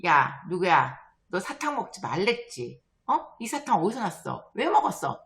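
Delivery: lightly acted parental telling-off; scolding mother. Mother questioning child about candy, mock scolding. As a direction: question sternly, like a mum. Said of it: "이렇게 엄마가 야단을 칩니다".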